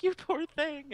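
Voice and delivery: high, cooing sympathy; pitying coo. Retold or imitated. Player pitying a friendless boy, high pitying coo. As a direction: coo over a pitiful little one.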